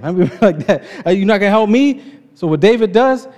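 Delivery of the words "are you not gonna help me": mock indignation. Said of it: "He says".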